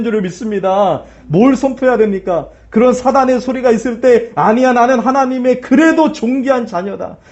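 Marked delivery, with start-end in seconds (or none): 4.3-7.2 bold declaration. Shown as a demonstration. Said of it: "선포하시기를".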